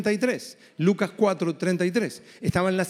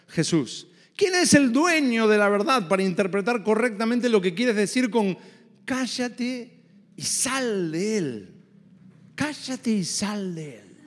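mock demon musing; slower than usual. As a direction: play the demon pretending not to understand, lightly. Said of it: "Imaginen al demonio diciendo".

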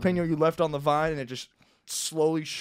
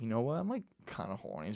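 offhand and softer; casually; 3 semitones lower, 10 dB quieter than usual. Retold or imitated. Imagined video prank line, casual and low-key. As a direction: toss it off like nothing. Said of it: "Say it casually".

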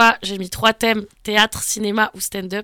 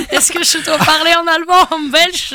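high, confused mock German accent; hammed-up German accent; put-on German accent; 6 semitones higher than usual. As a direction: ask it in a silly German accent, voice up. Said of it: "mais avec un accent allemand".

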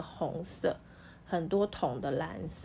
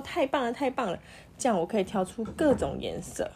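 happy exclaim; 2 semitones higher than usual. Acted. Magician happily cheers at making new colours. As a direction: cheer him on, delighted. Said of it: "他就很高兴说".

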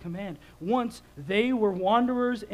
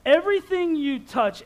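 higher, louder, slow furious dad; angry shout; 6 semitones higher, 9 dB louder than usual. Retold or imitated. Dad shouting at his daughter about the couch, furious. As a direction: blast each everything at her, slowly. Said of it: "I lit up".

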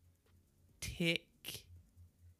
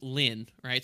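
"Lin" pulled out on its own with a rise; stressing first syllable. Shown as a demonstration. Host hints at the answer to co-host, stressed syllable. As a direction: hold up "Lin" as the key syllable. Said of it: "the first syllable is".

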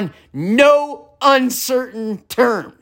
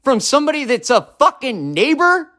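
furious, high yelling at the neighbor below; screamed rant; 3 semitones higher than usual. Real, not acted. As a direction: scream every word so the neighbor hears. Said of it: "this message was screamed in my apartment".

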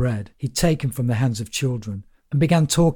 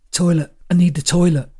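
pleading; 6 semitones higher, 3 dB louder than usual. A narrator's reading. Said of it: "pleaded Gerald".

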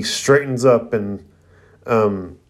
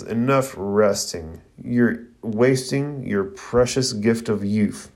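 slow, measured teacher's admonishment; stern demand; slower than usual. Acted. Guy Sensei scolds resting students, slow and demanding. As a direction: weigh out each word like a demanding sensei. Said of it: "Guy Sensei demands".

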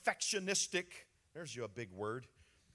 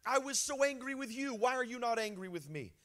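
retold plea; 5 semitones higher than usual. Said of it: "And I said".

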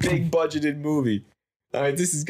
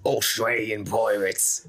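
slow, lower mock Australian accent; put-on Australian pirate voice; 4 semitones lower, slower than usual. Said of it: "They're all from Australia".

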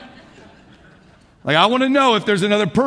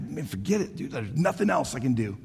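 defeated giving up; 8 semitones lower, 10 dB quieter than usual. Retold or imitated. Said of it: "I would give up at that moment".

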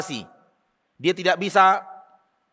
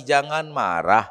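slow, lowered, stretched-out answer; measured counsel; 4 semitones lower, slower than usual. Retold or imitated. The Prophet answers the man's request, slow measured counsel. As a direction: draw the advice out slowly.

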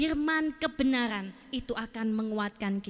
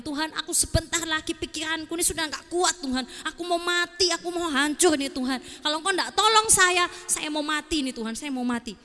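mock desperate prayer, raised then fading; acted despairing plea; 3 semitones higher than usual. A crushed believer begs God for help, acted despair. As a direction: plead as if at breaking point, lightly acted. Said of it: "lalu kita semakin sedih".

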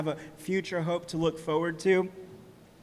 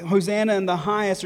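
mild, louder imitation of a cheering crowd; raised-voice quote of a shouting crowd; retold crowd shout; 5 dB louder, faster than usual. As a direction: call it out lightly, as if quoting a crowd. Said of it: "from the crowd shouting".

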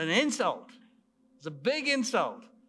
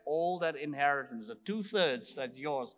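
hurt father; 6 semitones lower, 3 dB quieter than usual. Acted. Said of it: "the father says".

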